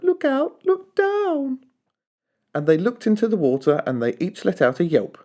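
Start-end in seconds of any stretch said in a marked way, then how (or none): 0.0-1.6 much higher urgent call; warning yell. A narrator's reading. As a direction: call out to warn them. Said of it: "who yelled".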